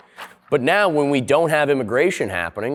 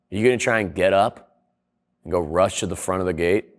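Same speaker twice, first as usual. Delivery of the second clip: a low, laid-back guy leaning over to ask; lowered seatmate voice; 7 semitones lower than usual. Retold or imitated. Seatmate on a plane asking about rushing off, in a lower, casual voice. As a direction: lightly drop into a low, casual traveller voice. Voicing airplane seatmate in story.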